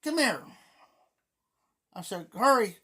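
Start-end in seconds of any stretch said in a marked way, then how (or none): 0.0-0.4 a retold holler across the water. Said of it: "I hollered at her". 2.3-2.8 loud, higher call to hurry; a quick retold holler. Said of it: "I hollered at her".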